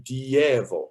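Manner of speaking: "Dievo" split as di-YE-vo, stress on YE; second stress option. Shown as a demonstration. Conductor comparing stresses for a choir, "Dievo" stretched on YE. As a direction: stretch "Dievo" into three parts, leaning on YE. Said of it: "Where do we want the word stress".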